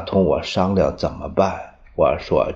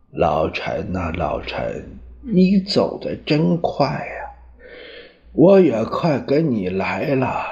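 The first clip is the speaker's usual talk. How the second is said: 轻声唤老陈，时而哽咽般拔高; 含泪的悼念，带着压抑的悲凉; tearful farewell at the coffin. Retold or imitated. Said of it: "我在他灵前流泪". (在老友灵前含泪诉说，低回悲切)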